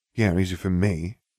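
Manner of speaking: mumbled, muttered under the breath. Ron answers the narrator's boast about beating him, muttered. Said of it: "he muttered".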